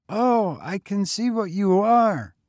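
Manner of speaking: put-on high, breathless boy; panting boy. A narrator's reading. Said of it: "the boy panted".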